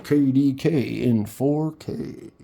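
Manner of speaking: K D K in four K with each letter drawn out; slow spelled-out handle. Shown as a demonstration. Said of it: "like a radio announcer?".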